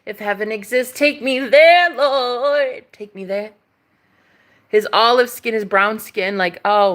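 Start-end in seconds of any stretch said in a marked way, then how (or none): 0.0-3.5 swooning mock plea to heaven; dramatic pleading. Real, not acted. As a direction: cry out to the Lord, voice swelling. Mock prayer over gorgeous skin.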